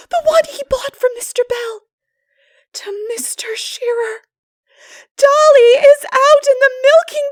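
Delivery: very high, loud, near tears with whispered breaks; despairing girl. Acted. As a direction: wail out the disaster in a panic. Anne in despair.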